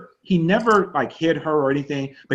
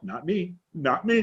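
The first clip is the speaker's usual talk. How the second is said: mock muttered mantra; 5 dB quieter, slower than usual. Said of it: "he was going".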